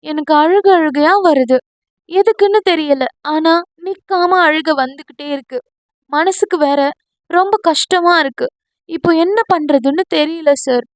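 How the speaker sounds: a read-aloud sob, gently acted; sobbing voice. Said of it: "தேம்பிய குரலில்".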